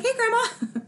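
high mock greeting from the stepdad; imitating stepdad. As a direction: lightly play the stepdad calling out to Grandma. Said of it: "and he's like".

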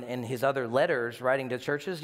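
ordinary talk

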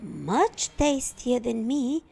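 high, loud call to stop; boy shouting a distraction to the wolf; shouted. Acted. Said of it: "shouted Little Red".

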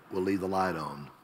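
lightly imitated monotone tagline; a hint of a deadpan ad spokesman; Tom Bennett's monotone. Preacher quoting the motel ad's tagline, mildly monotone. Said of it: "In his monotone voice".

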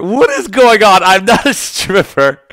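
hammed-up huffy denial; mock indignant voice. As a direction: play it offended, half joking. Jokes he looks like a stripper.

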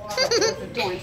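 "was adorned" broken up by a laugh at the mistake; laughing slip. Real, not acted. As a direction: giggle through the fumbled words. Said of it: "sorry, I'm pressing down the wrong".

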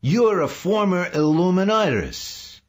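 loud, very high accusing cry. A narrator's reading. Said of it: "he cried suddenly".

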